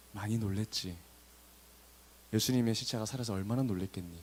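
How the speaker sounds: low, soft, consoling voice; sympathetic comforting. Acted. Imagined angel comforting the crying woman, soft and sympathetic. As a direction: gently share in their shock. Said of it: "동정을 하거나 공감을 해주거나".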